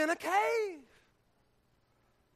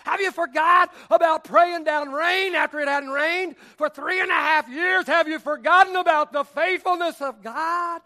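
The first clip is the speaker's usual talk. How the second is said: loud, a hint of an exasperated servant; scolding servant; 2 semitones higher, 6 dB louder than usual. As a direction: challenge him like an impatient servant. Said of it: "his servant would say".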